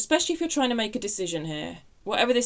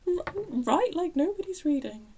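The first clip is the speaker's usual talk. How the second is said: amused; 9 semitones higher than usual. Real, not acted. Repeats message, still amused.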